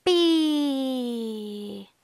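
"Bee" with lips together on the B and a long vowel. Shown as a demonstration. Teacher showing lips together for bee, long drawn-out "Bee". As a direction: press lips for B, then stretch "Bee". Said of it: "Lips together".

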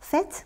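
faites said as "fet", with the final t sounded. Shown as a demonstration. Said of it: "ออกเสียงเตด้วยนะคะ". (ออกเสียง faites ว่า แฟต ให้ได้ยินเสียง ต ท้ายคำ)

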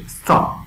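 "استاپ" opening straight on s; "استاپ" with a hissed start; S-initial pronunciation. Shown as a demonstration. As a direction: say "استاپ" as "stop", no vowel before the s.

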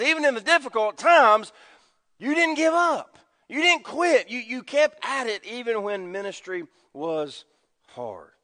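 rising preacher's praise, fading at the end; fervent praise. Retold or imitated. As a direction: praise rising high then falling to a hush. Jesus' praise voiced with rising pitch.

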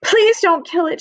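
high-pitched storybook pleading; sobbed plea. A narrator's reading. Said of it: "she sobbed".

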